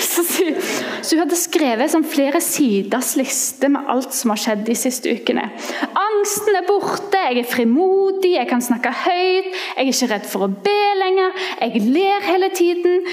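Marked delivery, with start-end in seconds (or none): 6.0-13.0 high excited voice of a freed woman; joyful quote. Retold or imitated. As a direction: read her list as if bursting with joy. Quoting joyful woman's list.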